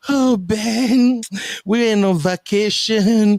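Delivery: high, lively mimic of his friend; teasing a friend about vanishing on vacation, high imitation; mock excited friend. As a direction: playfully imitate her gushing greeting. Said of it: "you just like".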